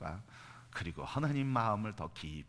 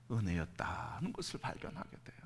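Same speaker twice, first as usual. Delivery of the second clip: whisper; 3 semitones lower, 6 dB quieter than usual. Real, not acted. Quiet reveal of grace.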